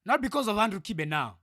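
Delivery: worked-up, forceful complaint; angry rant. Real, not acted. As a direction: let anger push the voice up. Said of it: "why I'm so angry".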